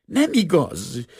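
high, loud, drawn-out shriek of denial; shrieked protest. A narrator's reading. Assistant denies the forced confession, shrieking. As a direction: shriek it slowly, pitched far up. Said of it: "sikoltotta a szemüveges lány".

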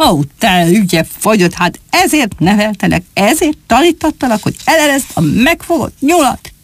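an outraged papa fox building his rage; hammed-up fuming tirade; angry father. Father scolding his son.

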